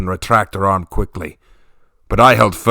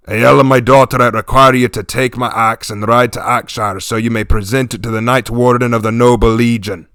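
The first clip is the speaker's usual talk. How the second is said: solemn command; 2 semitones higher, 4 dB louder than usual. Acted. King commands daughter.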